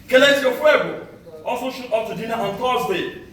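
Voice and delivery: measured spoken-word delivery with deliberate pauses; poem recital. Acted. Poet to summit crowd recalling the long trek, declaimed poem recital. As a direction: declaim it line by line to an audience.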